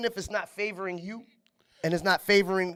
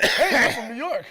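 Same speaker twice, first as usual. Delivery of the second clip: light mock New York accent, a bit higher and louder; 4 semitones higher, 6 dB louder than usual. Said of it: "don't let you forget you're a New Yorker as soon as you open your fucking mouth".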